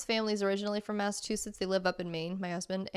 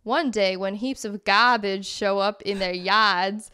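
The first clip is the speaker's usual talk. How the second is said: storybook read in put-on Boston; Boston accent. Reading a lobster book description aloud, put-on Boston accent. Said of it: "reading with that accent".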